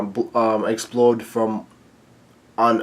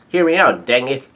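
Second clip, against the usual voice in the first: exasperated retort; 5 dB louder than usual. Retold or imitated. Acts Pudding's exasperated reply.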